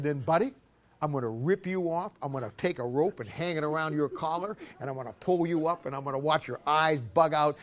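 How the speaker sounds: soft sing-song threat to the dog; mock threat. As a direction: coo the threat gently.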